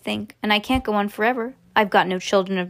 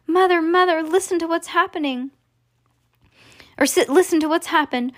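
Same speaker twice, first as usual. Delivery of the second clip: put-on high, eager child's news; excited cry; 8 semitones higher than usual. Charlie bursting with news for mother, excited. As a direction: urge them to listen, pitch up. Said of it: "cried Charlie".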